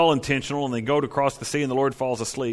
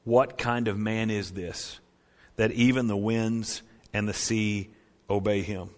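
awed hush; 4 semitones lower, 4 dB quieter than usual. Retold or imitated. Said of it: "the disciples responded correctly".

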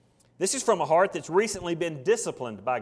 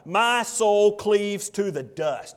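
heavy lament; 4 semitones higher, 5 dB louder, much slower than usual. Acted. Psalm of a broken man.

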